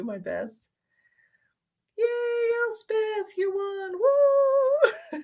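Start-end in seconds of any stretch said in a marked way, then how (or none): 2.0-5.2 excited. Real, not acted. Congratulating the winner again.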